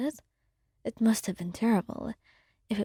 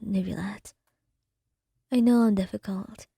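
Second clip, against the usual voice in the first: hushed, breathy-free whispered confession. Acted. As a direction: whisper it close to the mic, tenderly. Soft whispered ASMR story.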